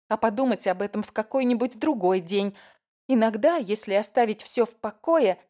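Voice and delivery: a hint of a naive eager girl; lightly voiced teenage girl. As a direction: play a frank sixteen-year-old.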